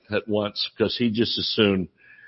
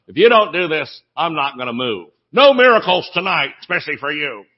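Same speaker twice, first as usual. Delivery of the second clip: petulant Holy Spirit; 4 dB louder than usual. Retold or imitated. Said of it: "the soup Nazi".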